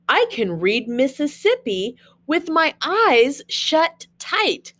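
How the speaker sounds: sing-song picture-book reading; reading to children. Acted. Teacher reading Dr. Seuss to her class, sing-song read-aloud. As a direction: read the rhymes to the kids with a bouncy lilt.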